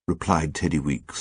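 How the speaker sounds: ordinary delivery, nothing marked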